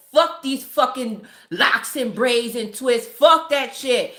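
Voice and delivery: slow, emphatic mock-mad dismissal; mildly mad, drawn-out rejection; retold anger. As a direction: swear it off word by word. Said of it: "I got mad".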